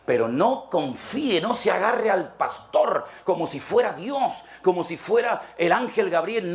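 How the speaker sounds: rising preacher's plea, building in pitch; preaching. Real, not acted. Pastor warning the congregation not to idolize pastors, impassioned preaching.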